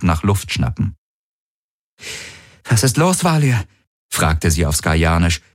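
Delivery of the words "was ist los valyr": cold as ice. A narrator's reading. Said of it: "ihre eigene Stimme kalt und tot wie Eis".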